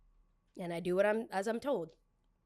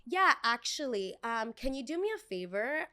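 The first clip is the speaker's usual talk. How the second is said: lightly voiced entitled girl, higher pitch; mildly put-on, higher customer voice; demanding customer; 4 semitones higher than usual. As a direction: imitate a customer asking a favor.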